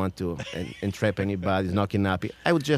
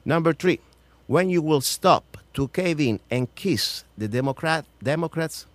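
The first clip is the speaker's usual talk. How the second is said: emphatic, raised reading voice; higher, firm delivery of a numbered question; formal read-out challenge; 5 semitones higher, slower than usual. Acted. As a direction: read out a pointed question to a senator.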